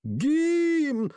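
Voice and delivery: high, hesitant far-off call; a timid voice from the back joining in; lone faint voice unsure of itself; lone unsure cry. Acted. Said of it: "одинокий неуверенный голос".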